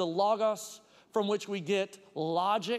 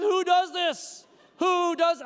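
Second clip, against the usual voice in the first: high, loud indignant cry; exasperated outburst; 8 semitones higher, 5 dB louder, slower than usual. Retold or imitated. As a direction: blow up at the rude parker. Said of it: "I was upset".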